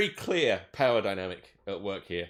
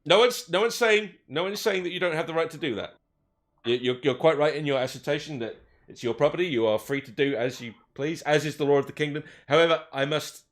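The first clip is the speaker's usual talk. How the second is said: raised, polite lawman voice, a bit pompous; officer at the door, formal and careful; elf police officer. Acted.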